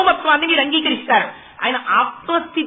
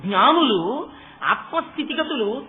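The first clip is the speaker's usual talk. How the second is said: ordinary talk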